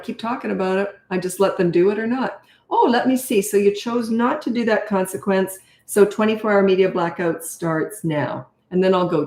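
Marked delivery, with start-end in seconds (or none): 2.7-8.5 light and even, no anger, slowing at the end; calm matter-of-fact parent. Shown as a demonstration. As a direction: state the penalty as calmly as the weather. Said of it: "That's how I talk".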